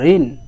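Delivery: ঋণ ending firmly on the n; no final vowel. Shown as a demonstration. Teacher modelling for students to repeat, closed final n. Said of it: "কোনো স্বরধ্বনি আসতেছে?".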